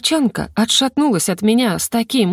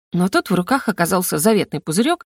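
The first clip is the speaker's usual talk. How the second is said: plain reading voice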